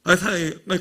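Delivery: ordinary delivery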